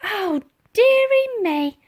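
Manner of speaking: cleaning lady grumbling at the flood; old cleaning lady. Acted. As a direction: tut over the mess. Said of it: "remarked Dotty".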